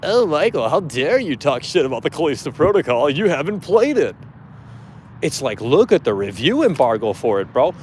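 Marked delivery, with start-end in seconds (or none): 0.0-4.2 a hint of whiny fanboy, lifting on oh; mild mock indignation. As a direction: lightly parody an offended fan. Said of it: "These people are really mad".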